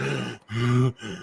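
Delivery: soft re-enacted gasp; mock shocked gasp. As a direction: gasp as if watching a scary play. Re-enacts shock at big plays.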